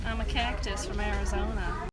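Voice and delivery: a hint of a Texan accent. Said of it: "I don't know what accent that is".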